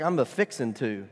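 folksy Southern "I'm a fixin' to"; Southern twang. Retold or imitated. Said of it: "it'd be like".

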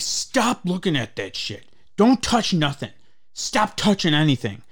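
high-pitched, exasperated scolding; mock freaked-out dad. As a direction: imitate a dad telling off his kid. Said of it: "his dad freaks out at him".

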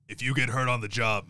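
put-on half-hearted New York accent. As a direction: attempt a New Yorker, not quite landing it. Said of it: "Let me get my, my New York accent".

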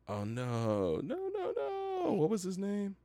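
high, soft wail of dismay; mock-tearful dismay. Real, not acted. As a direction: whimper it, drawn out and high. Upset he lost the video.

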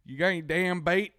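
mock quote, a touch punched up; Randy Quaid. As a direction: lightly imitate a goofy movie line reading. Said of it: "and Randy Quaid's like".

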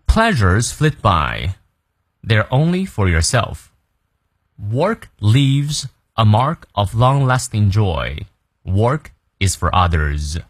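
slow, careful full read-through; slow model reading. Shown as a demonstration. Teacher leading a slow full read-through. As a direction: read it slowly for students to follow. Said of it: "再来一遍".

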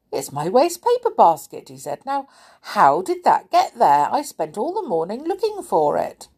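a hint of a fussy goblin, puzzled.

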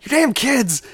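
high, loud, slow mock grumble; angry dad. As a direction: scold the kids like a cranky father. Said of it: "And he was like".

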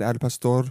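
Al Pastor with Spanish sounds; Spanish pronunciation. Retold or imitated. Ordering food respectfully, Al Pastor in Spanish pronunciation. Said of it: "the right way".

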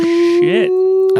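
high, loud exclaim; surprised. Real, not acted. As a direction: yelp it in shock. GM reacting to player.

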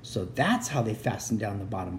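low, soft musing; hushed inner thought; thinking to himself. A narrator's reading. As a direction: say it privately, under the voice. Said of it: "thought Elmer".

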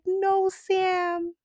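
anguished cry. Retold or imitated. Prue watching Sam die.

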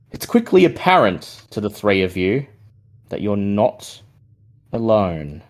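slow, even scene setting; game master narration. Acted. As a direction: paint the scene for the players.

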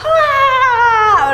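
long, very high mock wail; hammed-up high howl; retold laughing wail. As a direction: let out a drawn-out "waah", half laugh, half cry. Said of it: "gue ketawa-ketawa ngeceritain itu".

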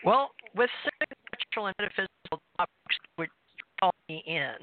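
breaking-up phone line; talking telephone. Real, not acted. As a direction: sound like a bad phone call. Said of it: "breaking up on your phone".

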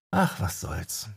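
soft, slow resigned sigh. Acted. Magician giving in to Jessica, soft sigh. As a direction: let it out softly with a sigh. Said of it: "seufzte der Magier".

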